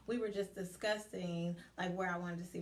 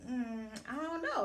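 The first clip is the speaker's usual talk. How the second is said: higher, hesitant hedge; retold uncertainty; 4 semitones higher than usual. Student stuck on coach's question, uncertain.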